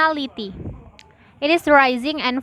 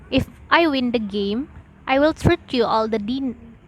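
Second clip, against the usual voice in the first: "if I win the game", pause, then "I will treat you"; pausing between clauses. Shown as a demonstration. Teacher demonstrating pausing, a stop after "game". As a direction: break after GAME before the main clause. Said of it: "when the speaker stops".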